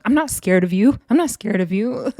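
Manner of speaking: mock tough talk, lifted endings; projected bravado. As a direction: put on outward confidence, repeated insistently. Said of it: "you wanna project it".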